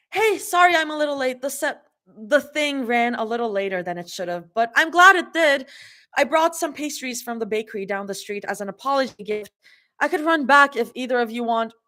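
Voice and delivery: high, bright, a little breathless; happy greeting. Acted. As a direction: call out cheerfully, smoothly. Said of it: "happily calls out, a little breathless".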